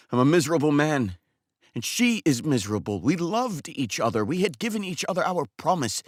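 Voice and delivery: a heartbroken man who can't hold it in; a barber sending his customer away in grief; distraught barber Makar. Acted. Barber Makar, grieving and upset.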